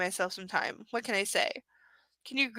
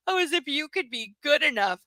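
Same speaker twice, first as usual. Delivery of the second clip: mocking quote; 5 semitones higher than usual. Mimics the laugh's meaning mockingly.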